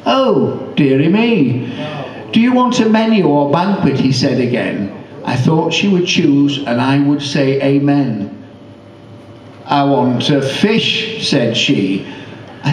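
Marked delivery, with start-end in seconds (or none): 0.1-4.0 high, flustered waiter; a fussing waiter pitching it up. Acted. Waiter flustered, asks again. 9.7-11.3 put-on slow, stubborn old lady.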